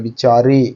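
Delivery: बिचारे with the रे drawn out and leaned on; teacher stretches the रे in बिचारे; stretched बिचारे. Shown as a demonstration. Teacher showing students how रे in बिचारे sounds long. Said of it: "रे ज़्यादा लग रहा है यहाँ पे".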